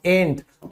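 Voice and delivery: "ain't" said softly as one clipped syllable; "ain't" said quietly and short, the t cut off; ain't modelled. Shown as a demonstration. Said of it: "क्या use करते हैं?".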